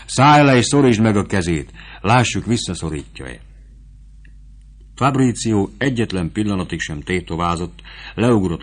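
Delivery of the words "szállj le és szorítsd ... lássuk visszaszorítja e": put-on vivandière daring the boy; stern command. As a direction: push him to touch the dead.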